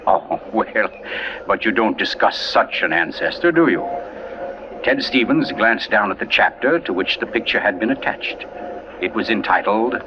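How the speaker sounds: measured storyteller reading a mystery; story narration. A narrator's reading.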